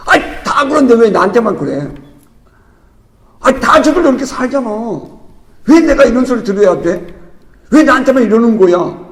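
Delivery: a hint of a whiny, indignant protest; defensive excuse. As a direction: lightly act out someone making excuses. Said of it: "이렇게 변명할 것 같아요".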